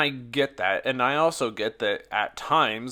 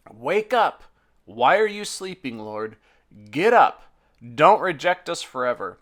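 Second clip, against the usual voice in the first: higher, louder urgent plea; pleading cry; 3 semitones higher, 4 dB louder than usual. Acted. Psalmist crying out to God to wake and help, loud pleading. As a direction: call out to wake a sleeping God.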